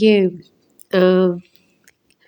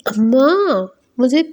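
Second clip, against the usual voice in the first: a raised, mildly angry retort to her mother; retold anger; 4 semitones higher than usual. Daughter snapping at her mother in anger, lightly imitated. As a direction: voice her hurt anger, pitched up a little. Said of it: "مطلب وہ بہت غصے میں ہوتی ہے".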